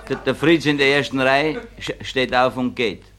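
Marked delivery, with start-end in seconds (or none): none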